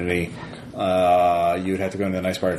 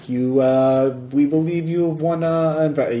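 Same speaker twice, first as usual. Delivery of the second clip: booming prize announcer; 7 semitones higher, slower than usual. Acted. GM reads scam prize message.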